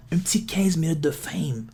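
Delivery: Un petit quinze minutes de fame whispered, unvoiced; whispering. Real, not acted. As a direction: whisper the punchline. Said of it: "repeated as whisper". (en chuchotant)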